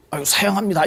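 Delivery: polite refusal. Shown as a demonstration. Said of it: "이러면 안 되고".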